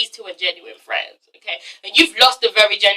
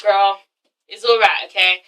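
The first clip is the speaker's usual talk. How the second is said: lower, mildly consoling voice; low-key comforting; 5 semitones lower than usual. Acted. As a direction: console a friend in a low, understated way. Voicing own way of comforting someone.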